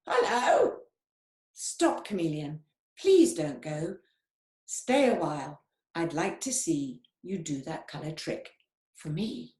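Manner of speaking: lightly voiced parrot, bright hello; squawking parrot. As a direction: call out like an eager bird. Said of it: "The parrot squawked aloud".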